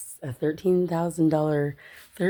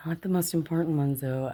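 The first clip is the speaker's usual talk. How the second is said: half-whispered confession; hushed admission; 5 dB quieter than usual. Real, not acted. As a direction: admit it under your breath. Sheepishly admitting unpaid bills.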